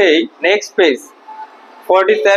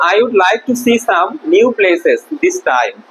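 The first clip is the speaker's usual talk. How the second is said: slow, careful dictation pace; slow reading; much slower than usual. Shown as a demonstration. Teacher reading an English sentence slowly to pupils. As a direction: read it out word by word for the class. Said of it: "teacher reads English model sentence slowly".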